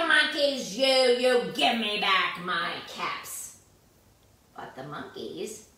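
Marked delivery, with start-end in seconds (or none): 0.1-3.6 mild mock shout, slow. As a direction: shout it at the monkeys, hammed-up. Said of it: "stomped both of his feet and shouted".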